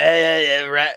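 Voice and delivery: imitated grating "eh, eh"; mock nasal-voice noise. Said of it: "That's why she sounds like that".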